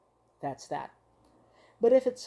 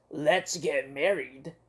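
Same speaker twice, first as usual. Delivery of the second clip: slow tender; 3 semitones lower, slower than usual. Acted. Monster proposes.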